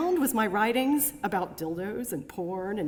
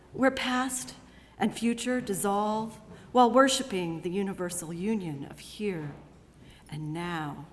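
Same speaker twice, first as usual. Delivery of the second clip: reverent poetic recital. Acted. Poem fades into reverent hush.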